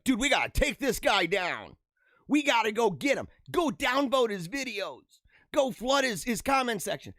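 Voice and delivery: riled-up hater. Acted. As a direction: imitate an indignant critic calling for a takedown. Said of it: "rankled and stuff".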